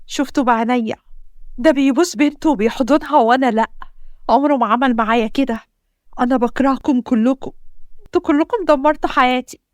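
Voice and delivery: tearful outburst. Acted. Wife's tearful outburst at husband.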